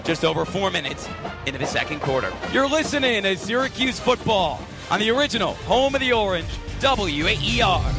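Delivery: punchy sportscaster recap, stretching key words; radio play-by-play. Real, not acted. Live radio play-by-play, station ID.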